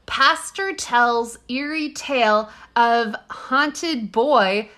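put-on slow, drawn-out old-timey headline; old newsreel narrator. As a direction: read it like a 1940s newsreel. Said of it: "in your best old-timey voice".

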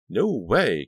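loud, firm denial; firm declaration. Acted. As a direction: declare it flatly. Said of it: "Caroline declared".

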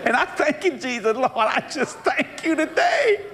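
high, slow, laughing mock prayer. Preacher mocking a boy thanking Jesus, high and laughing. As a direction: ham up a grateful boy praying.

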